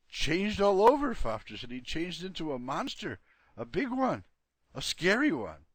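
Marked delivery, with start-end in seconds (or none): 0.1-1.1 excited. Acted. Dog reports Freddy's transformation. 1.7-5.7 excited. Acted. Dog describes the monster.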